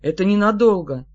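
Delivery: ordinary delivery, nothing marked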